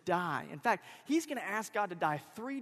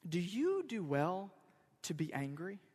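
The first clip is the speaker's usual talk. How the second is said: measured question; 4 dB quieter than usual. Acted. God answering Jonah's tantrum, measured.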